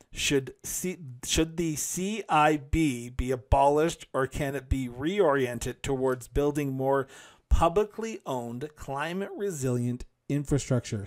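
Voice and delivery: slow, careful, deliberate word-by-word reading. Reading out a submitted question on infrastructure: reading really slowly. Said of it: "Sorry for reading that really slowly".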